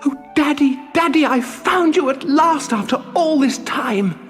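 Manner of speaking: very high, elated puppet voice; overcome with joy. Acted. Puppet finds his lost father, overcome with joy. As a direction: cry out in overjoyed relief. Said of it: "overcome with joy".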